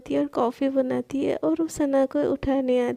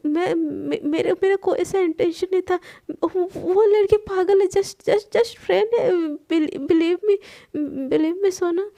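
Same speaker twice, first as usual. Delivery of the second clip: panicked pleading; 4 semitones higher than usual. Acted. Sana frantically pleads with Palak, high and stammering. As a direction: beg her to believe you, tripping over words. Begging girlfriend, stammering excuses.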